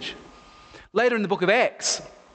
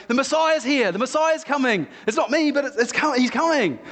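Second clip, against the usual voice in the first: higher, urgent proclamation; prophet proclaiming; 5 semitones higher than usual. Retold or imitated. John the Baptist announcing the Messiah, excited. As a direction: cry out the news like a wild prophet.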